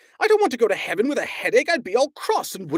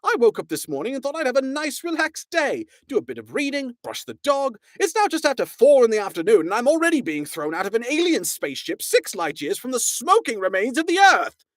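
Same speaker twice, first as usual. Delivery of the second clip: much higher, loud fast aggrieved rant; high exasperated Arthur complaint; complaining; 11 semitones higher, 5 dB louder than usual. A narrator's reading. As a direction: rant in disbelief at your awful day. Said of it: "complained Arthur".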